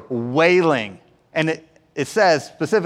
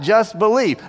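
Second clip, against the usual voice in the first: raised, lively imitation of a command; urgent rallying call; 4 semitones higher than usual. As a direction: call it out over a storm, lightly acted. Jesus rallying disciples in storm.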